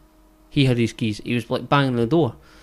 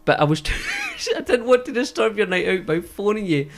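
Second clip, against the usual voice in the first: higher, meek mum voice broken by laughs; mum's excuse; 7 semitones higher than usual. Retold or imitated. Storyteller voicing the mum explaining herself to Colin, meek. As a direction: play the apologetic mother.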